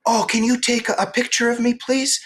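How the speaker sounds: high, sweet girlish mock voice; mimicking the young woman. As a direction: imitate a chirpy gym girl asking a favour. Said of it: "she goes".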